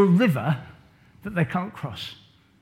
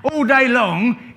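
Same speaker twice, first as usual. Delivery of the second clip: "all day long" stretched slowly and raised; drawn-out emphasis; 5 semitones higher, slower than usual. Shown as a demonstration. Teacher stressing Moses' endless workday, slow and drawn out. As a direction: draw out "all day long" to show how tiring it was.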